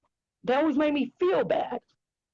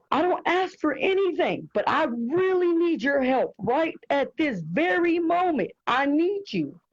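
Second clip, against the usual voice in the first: tearful prayer; 4 semitones higher than usual. Retold or imitated. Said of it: "With tears in my heart".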